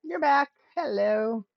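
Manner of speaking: excited greeting. Real, not acted. Greets returning stream viewer.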